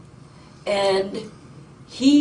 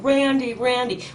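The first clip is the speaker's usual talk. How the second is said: raised, higher calling of a name like a mother; mom voice call; 4 semitones higher, 4 dB louder than usual. Retold or imitated. Witness calling across the trailers in a mom voice, raised. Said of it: "she put on her mom voice screaming".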